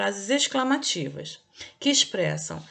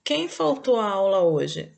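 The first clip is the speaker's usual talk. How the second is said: louder, slow question; question intonation; 5 dB louder, slower than usual. Shown as a demonstration. Teacher reading a question example to pupils, louder and slow. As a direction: ask it clearly as a question. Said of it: "Vamos lá aqui".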